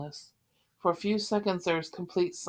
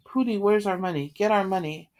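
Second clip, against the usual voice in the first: panicked; 2 semitones higher, 6 dB louder than usual. Acted. Panicked wife demands money.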